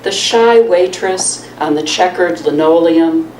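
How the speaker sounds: measured reading with pauses between phrases; poem read aloud to an audience; poetry reading. Acted. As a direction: let each line land, then pause. Reads own poem to audience.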